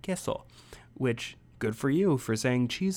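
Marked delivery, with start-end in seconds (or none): 0.0-0.5 high, soft imitation of an eager beginner; excited Spanish student. Mocking his own stage accent, excited student imitation. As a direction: say "Queso" like an overeager language student. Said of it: "somebody in Spanish class that's really excited".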